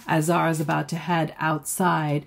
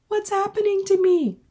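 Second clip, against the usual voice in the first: high, strained cry of dizzy alarm; overwhelmed girl feeling sick and scared; panicked; 3 dB louder than usual. Acted. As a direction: let it rise up in a frightened wail. Zara panics, head spinning.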